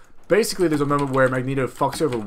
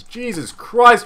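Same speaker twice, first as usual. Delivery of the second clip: high, loud, drawn-out exasperation; stunned high outburst; shocked exclamation; 9 semitones higher, 7 dB louder, much slower than usual. Real, not acted. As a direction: exclaim slowly in loud disbelief. Reacts to warrior's heavy attack.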